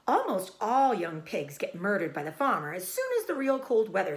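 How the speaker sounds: loud, high gossipy sheep; old sheep voice. Acted. Old sheep explaining the farm plot, loud and high. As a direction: lay out the plot with relish.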